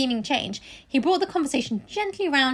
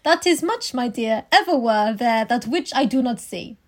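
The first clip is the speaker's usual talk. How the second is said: put-on German accent. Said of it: "I only have a German one".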